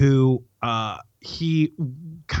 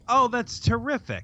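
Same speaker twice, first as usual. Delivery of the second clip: bright smiling delight; 9 semitones higher than usual. Real, not acted. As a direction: say it grinning. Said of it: "Can you hear the smile in my voice".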